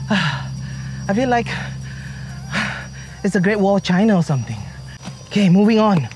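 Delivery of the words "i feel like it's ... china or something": breathless from climbing stairs; winded, puffing between words; out of breath. Real, not acted. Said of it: "sighs, long flights of stairs".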